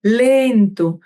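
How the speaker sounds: one long, easing word after an exhale; drawn-out slow demo. Shown as a demonstration. Coach guiding parents through breathing out, slow and drawn out. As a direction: stretch LENTO out, falling at the end.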